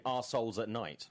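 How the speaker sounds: "Our Souls at Night" with "Our" reduced to "ar"; British pronunciation. Shown as a demonstration. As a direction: run "Our Souls" together so it sounds like "arseholes". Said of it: "In the U K, you'd say".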